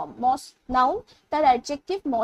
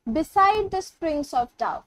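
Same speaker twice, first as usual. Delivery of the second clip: each word drawn out slowly; teacher reciting a poem line to the class, slow and measured; slow poem recitation; much slower than usual. Shown as a demonstration. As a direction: read the verse line aloud, very slow.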